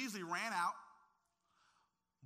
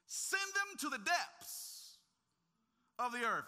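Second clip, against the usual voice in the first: loud, slow, drawn-out mock curse; half-joking plea for enemies' doom; preacher reenacting his own angry prayer, slow and loud; vengeful prayer; 7 semitones higher, 6 dB louder, slower than usual. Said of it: "I've prayed even at times".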